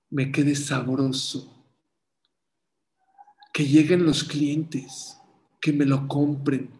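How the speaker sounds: slow, pleading prayer voice; heartfelt prayer. Retold or imitated. Bagel seller prays to God for customers, slow and earnest.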